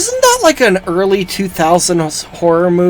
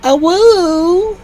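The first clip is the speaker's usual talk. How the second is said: calling out; 13 semitones higher, much slower than usual. Pretend. Calling out in the game.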